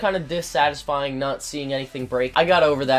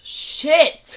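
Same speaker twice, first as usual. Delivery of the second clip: sharp, much higher shout; startled curse; 13 semitones higher, 6 dB louder than usual. Real, not acted. Gamer dies suddenly, sharp high yelp. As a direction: yelp it as you die.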